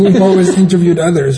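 numb from the dentist. Real, not acted. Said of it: "I also wanna apologize for my mouth".

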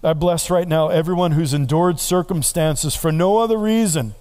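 rising, fervent pastor's prayer; preacher praying aloud over his people; congregational prayer. Acted. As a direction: lift the prayer over the room.

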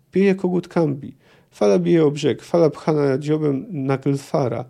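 reading a novel aloud, steady and measured; measured literary reading; story narration. A narrator's reading. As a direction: tell it like an audiobook narrator. Reads novel passage aloud.

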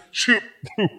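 high stifled giggle breaking out. Acted. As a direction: try not to laugh and fail. Stifled laugh during title.

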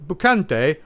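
attempted Italian accent on the name; a loosely put-on Italian accent; hint of some Italian-like accent; vague Italian accent. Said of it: "I don't know what accent that is".

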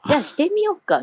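breezy mock "why not" lift; casual suggestion. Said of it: "そんな気軽にしようかって".

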